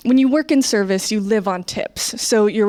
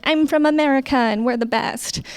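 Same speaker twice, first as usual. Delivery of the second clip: higher, naive mock boast; cocky young American; 5 semitones higher than usual. Eighteen-year-old American new in Europe, naively boastful. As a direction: announce it proudly like a naive teenager. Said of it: "you're like".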